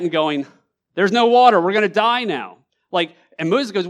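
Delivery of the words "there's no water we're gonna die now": loud, high, panicky wail; panicked complaining cry. Retold or imitated. Israelites crying out to Moses in loud panic. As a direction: cry out that you're about to die of thirst.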